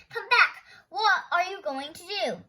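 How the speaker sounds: high, loud calling after him; yelling. Acted. Nelson yelling after his running friend, loud and high. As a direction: call after him in alarm. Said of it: "Nelson yelled".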